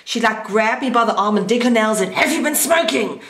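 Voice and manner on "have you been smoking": mimicked mother's accusing question, higher pitch; stern interrogation. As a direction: imitate a mother grilling her kid. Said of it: "Like this".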